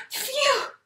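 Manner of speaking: high, light sigh of relief; relieved phew. A narrator's reading. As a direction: breathe out your relief. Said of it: "He cried out".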